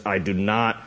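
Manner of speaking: lightly voiced guttural man; a hint of a possessed, guttural male voice. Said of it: "in this guttural male voice".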